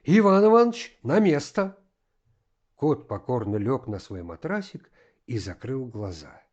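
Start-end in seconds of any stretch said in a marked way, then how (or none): 0.0-1.8 high, loud shout; shouted command. A narrator's reading. Master orders the gander to its place, shouting. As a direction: call out sharply, voice raised high. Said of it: "он крикнул".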